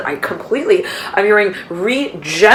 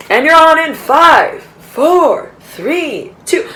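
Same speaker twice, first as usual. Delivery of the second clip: higher, slower floor manager countdown; studio countdown; 9 semitones higher, 5 dB louder, much slower than usual. Retold or imitated. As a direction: count the anchor in, slow and louder. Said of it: "when they say".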